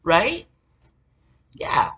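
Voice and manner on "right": much higher, louder, put-on mocking voice; high mocking impression of the attacker. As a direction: squeak it out like a sneering mimic. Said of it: "He was like".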